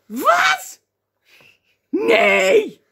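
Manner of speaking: high, shouted disbelief; loud incredulous yelp; mock shock. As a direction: explode in hammed-up horror. Acting a shocked Bible reader.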